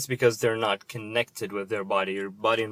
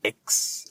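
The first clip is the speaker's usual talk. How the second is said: "ex" slowly set apart as its own syllable; prefix isolated. Shown as a demonstration. Pointing viewers to the prefix, "ex" said distinctly. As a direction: land clearly on "ex" alone. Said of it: "I want you to look at the prefix".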